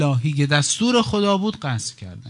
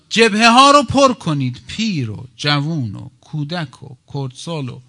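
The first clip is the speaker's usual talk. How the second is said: rallying call; 7 dB louder than usual. Retold or imitated. Preacher voicing the late Imam's call to the front, rallying cry. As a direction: call out a summons to the crowd.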